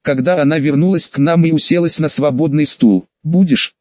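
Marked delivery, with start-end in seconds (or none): 3.2-3.7 mumbled through a mouthful; mouth full. Acted. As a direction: talk with your mouth stuffed with pizza. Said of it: "прошамкал я с набитым ртом".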